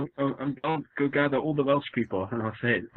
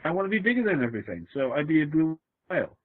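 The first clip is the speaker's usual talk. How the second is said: excited; 5 semitones higher than usual. Real, not acted. Insisting on being a whale.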